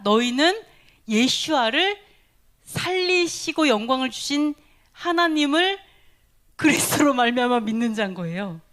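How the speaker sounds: 너희는 and 예수와를 punched loud and separate; emphatic rereading. Shown as a demonstration. Preacher rereading the verse, each phrase punched for clarity. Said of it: "되게 헷갈리게 써 있죠?".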